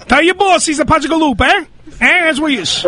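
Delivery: hammed-up mock Italian; bad Italian accent. Host answering a caller's boss as an Italian, bad Italian accent. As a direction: play a tough-talking Italian, lightly overdone. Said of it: "I'll talk to him as an Italian".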